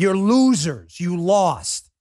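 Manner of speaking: scornful jeer at the losing team; taunting. Real, not acted. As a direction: rub it in their faces. Taunting kneeling soccer team.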